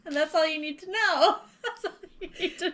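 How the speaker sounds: laughing through the words. Real, not acted. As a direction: say it while still laughing. Laughing after punchline.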